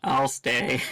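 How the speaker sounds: small, meek, sad voice; sad puppy voice. Acted. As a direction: say it like a kicked puppy. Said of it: "Sad puppy voice".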